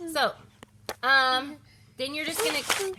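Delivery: ordinary talk, nothing marked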